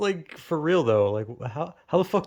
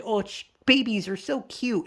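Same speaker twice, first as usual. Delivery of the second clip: mock gushing; 7 semitones higher than usual. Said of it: "People are always like".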